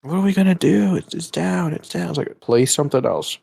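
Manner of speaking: mock panicking Roblox players; mocking whiny gamers. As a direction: mimic upset redditors. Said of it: "on the Phantom Forces Reddit".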